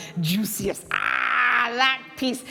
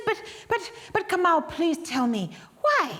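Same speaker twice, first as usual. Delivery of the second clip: pleading; 5 semitones higher than usual. Acted. Washu pleads with husband.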